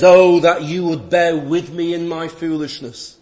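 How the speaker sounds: emphatic, loud quote with a touch of sarcasm; lightly ironic plea. Acted. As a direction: plead loudly with mild irony. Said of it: "being a little sarcastic".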